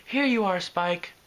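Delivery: gentle, soothing offer; calm him like a caretaker. Acted. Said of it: "came Fluttershy's soothing tones".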